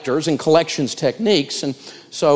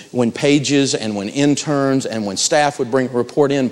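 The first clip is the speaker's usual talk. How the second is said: normal talking voice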